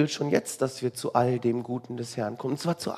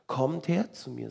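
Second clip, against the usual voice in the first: softer, tender quoted call; gentle invitation; 5 dB quieter than usual. Acted. Jesus calling the burdened to himself, gently. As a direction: invite them softly to come.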